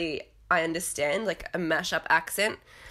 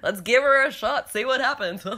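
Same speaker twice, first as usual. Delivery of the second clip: a higher, louder mock Joe Gorga voice; imitating Joe; 6 semitones higher, 4 dB louder than usual. Retelling Joe's line about tequila, high and loud mock voice. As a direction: ham up Joe egging them on. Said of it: "Joe's just like".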